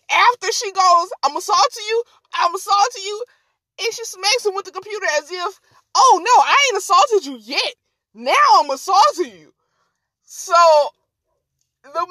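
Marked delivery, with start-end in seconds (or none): 1.2-3.2 higher, insistent repeated taunt; mock indignant taunt. Woman's challenge retold again. 5.9-9.5 animated, singsong indignant retort; mock sassy comeback. Woman's sarcastic comeback voiced.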